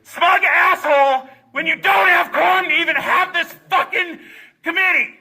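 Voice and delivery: furious shouted tirade; angry yelling. Real, not acted. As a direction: rage at them, no holding back. Yelling at lawmakers.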